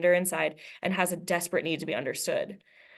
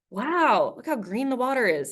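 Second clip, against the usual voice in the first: mock wonder; 6 semitones higher than usual. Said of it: "I say".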